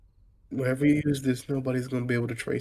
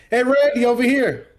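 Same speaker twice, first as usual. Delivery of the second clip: loud, higher calls to get attention; shouting across street; 10 semitones higher, 7 dB louder than usual. Acted. Photographers across the street call out loudly to Randy. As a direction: yell over from across the road.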